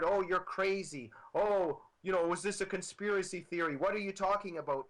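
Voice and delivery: dismissive mock voice of the critics; mocking leftist ridicule. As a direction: scoff at them as the leftists would. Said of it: "we are ridiculed by leftists".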